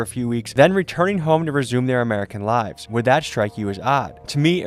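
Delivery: measured, articulate documentary voice-over; scripted news commentary. Real, not acted. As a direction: read it as a reasoned explainer to viewers. Reads scripted commentary to viewers.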